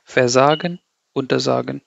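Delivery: versagen, untersagen run together, stress on SA; no emphasis on the prefix in versagen, untersagen; unstressed prefix. Shown as a demonstration. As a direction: glide over ver and unter onto sagen. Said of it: "then you don't emphasize it".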